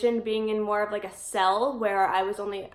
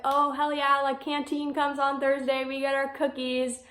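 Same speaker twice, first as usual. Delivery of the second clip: mildly excited quote, slightly higher pitch; happy anticipation; 4 semitones higher than usual. Retold or imitated. Inmates looking forward to canteen day, mildly excited. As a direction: imitate happy inmates with understated glee. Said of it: "we got super happy".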